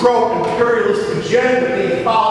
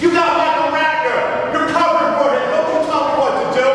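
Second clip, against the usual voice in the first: angry heckling; 4 semitones higher than usual. Real, not acted. Heated quarrel with the meeting chair.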